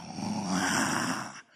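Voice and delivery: low mock bawling; imitated wail. The girl hearing God's message, imitated wail. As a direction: let out a long low comic wail.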